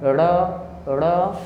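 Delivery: र said as retroflex ड़, tongue flicked; thick flapped ड़ in place of र; jerked ड़. Shown as a demonstration. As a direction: jerk the tongue down for ड़ where written र. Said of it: "झटका देके निकलता है".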